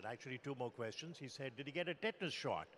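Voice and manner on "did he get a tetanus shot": brisk, retold doctor's query; quick question. Father questioning army doctors by phone, a quick retold question. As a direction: ask it quickly, at an even volume. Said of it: "He asked one more question".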